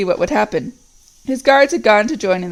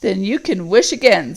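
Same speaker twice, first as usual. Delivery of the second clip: growling voice. Acted. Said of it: "said the growling voice".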